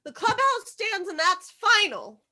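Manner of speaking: defiant shout. Acted. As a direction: refuse at full volume. Defiant refusal, much louder.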